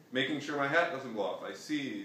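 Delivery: lively quick retake. Shown as a demonstration. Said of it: "reads the line again".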